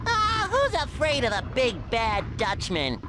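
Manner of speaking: very high, mocking cartoon bravado; cocky taunt. Hero brushes off a warning, cocky and squeaky. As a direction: scoff at the danger, high-pitched.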